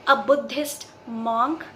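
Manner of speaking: monk said slowly as mawnk, rhyming with honk; mawnk, the wrong vowel; wrong pronunciation. Shown as a demonstration. Teacher showing students the common wrong monk. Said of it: "इस word को आप कैसे pronounce करते हैं?".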